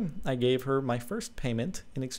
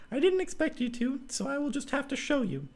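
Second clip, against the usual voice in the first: put-on high girl's voice, a little softer; Clara, calm resolve; 14 semitones higher, 4 dB quieter than usual. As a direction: say it high and matter-of-fact.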